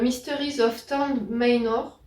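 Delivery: slow English title with a French speaker's accent; French-tinged go at an English accent; attempted English accent. Real, not acted. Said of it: "Mon super accent anglais".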